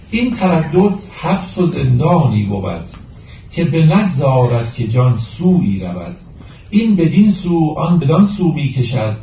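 slow, measured verse reading; deliberate, metrical Persian verse delivery; poetry recitation. Acted. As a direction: recite the couplet with drawn-out syllables.

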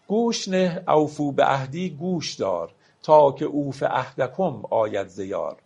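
slow, measured reading of a Persian verse; poetry recitation. Acted. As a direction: lay out each word of the couplet slowly. (دکلمهٔ آرام شعر)

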